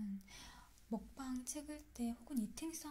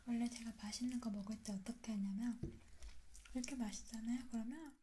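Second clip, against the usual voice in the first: talking while chewing food; muffled behind hand over mouth; mouth full, chewing. Real, not acted. Seen 0: Mouth busy with food, later hand covers mouth while laughing.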